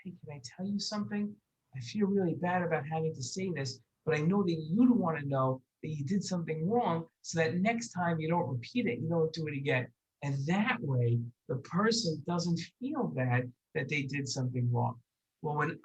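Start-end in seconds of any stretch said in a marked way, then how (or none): 0.0-9.9 gentle, kind correction. Shown as a demonstration. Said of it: "You have to go over to them and say".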